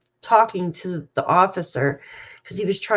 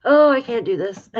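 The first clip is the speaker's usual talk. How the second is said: higher and louder, breaking out; louder outburst; 4 semitones higher, 5 dB louder than usual. Real, not acted. Overwhelmed reader crying out to viewers, louder. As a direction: let it burst out in dismay. Overwhelmed reading child's death.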